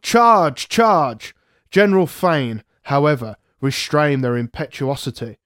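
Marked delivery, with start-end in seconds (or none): 0.0-0.7 much higher, louder battle roar; roared charge. Retold or imitated. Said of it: "they roared". 0.7-1.3 slightly raised repeat, less forceful; fading echo of the charge. Retold or imitated. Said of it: "they roared".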